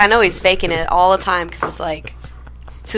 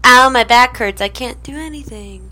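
whiny sick man; 4 semitones higher than usual. Retold or imitated. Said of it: "Todd's like".

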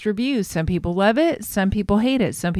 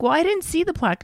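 imitating Tamara; 8 semitones higher, faster than usual. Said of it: "Tamara's like".

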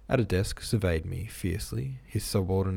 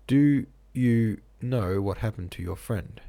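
slow, louder interrogation; raised, deliberate questioning; shouting; 3 semitones higher, 5 dB louder than usual. A narrator's reading. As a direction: demand it slowly, word by word. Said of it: "the director shouted".

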